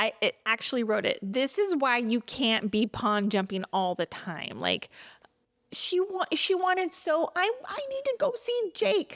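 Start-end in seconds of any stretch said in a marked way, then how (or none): 7.4-9.2 very high-pitched mocking voice. Recapping episodes while frustrated with a show's character, doing a mocking Kat voice. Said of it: "I'm making that voice for her".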